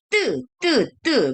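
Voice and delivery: "te" with a hard, doubled t; "te" as the Korean double consonant, repeated separately; tense double consonant. Shown as a demonstration. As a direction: say each "te" with a tense, tightened t. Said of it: "Double de ya".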